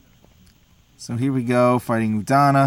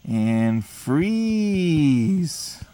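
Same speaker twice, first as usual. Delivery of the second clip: hushed whisper of the move; 4 semitones higher than usual. Real, not acted. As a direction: breathe it out secretly.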